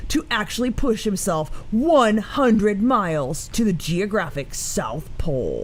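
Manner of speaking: slow, loud trailer announcer read; movie trailer voice. Pretend. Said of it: "can you read it in Dan voice, like a movie trailer".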